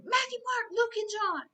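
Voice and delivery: high, loud calling scream; screaming a name. Retold or imitated. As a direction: cry her name out urgently from far above. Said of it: "He was that one voice screaming".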